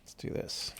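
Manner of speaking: whispered to himself; whispering. Real, not acted. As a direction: breathe it under your breath.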